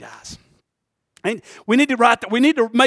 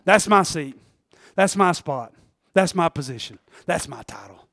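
mock petty whine; 6 semitones lower, 5 dB quieter than usual. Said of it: "let's not argue over".

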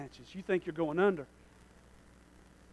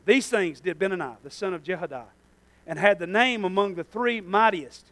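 measured, careful verse reading; slower reading; 3 semitones lower than usual. Real, not acted. Preacher rereading the verse to the congregation, slower. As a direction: read it out more deliberately. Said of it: "I'm gonna read that slower".

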